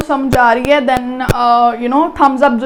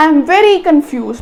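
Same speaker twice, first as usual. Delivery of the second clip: slow VERY in "I am very confused"; emphatic stress; much slower than usual. Shown as a demonstration. Teacher showing which word to emphasise, stress on very. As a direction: punch very, fall through confused. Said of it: "ਚੀਜ਼ ਨੂੰ ਐਮਫਸਾਈਜ਼ ਕਰਨਾ".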